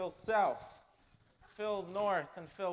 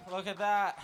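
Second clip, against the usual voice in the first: folksy lumberjack character. Acted. Plays lumberjack Phil North in skit.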